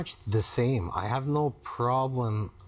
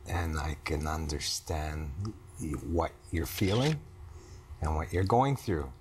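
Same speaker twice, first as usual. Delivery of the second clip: low-pitched, halting reassurance; low, careful words of commitment; earnest reassurance; 6 semitones lower, 4 dB quieter than usual. Real, not acted. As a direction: reassure your partner gently, with long pauses. Husband reassuring wife in therapy exercise.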